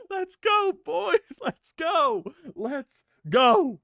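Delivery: high, loud rallying cheer. Real, not acted. Fan cheering his team.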